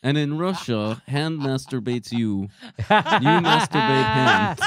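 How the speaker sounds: put-on Russian accent breaking into laughter. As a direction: joke Russian accent, cracking up. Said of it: "in a Russian accent".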